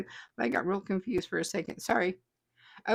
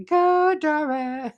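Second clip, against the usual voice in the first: cheer; 6 semitones higher, 5 dB louder, much slower than usual. Retold or imitated. Reading a cheering comment.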